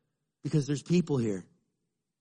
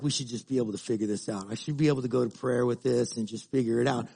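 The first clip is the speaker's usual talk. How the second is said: rushed excuse; 5 semitones lower, 4 dB quieter, faster than usual. Retold or imitated. Quoting inner excuse.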